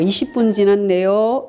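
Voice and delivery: slow, gentle statement of fact; the right, gentle way to note lateness; soft start. Shown as a demonstration. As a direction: say it calmly, just as it is. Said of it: "이렇게 하는 거예요".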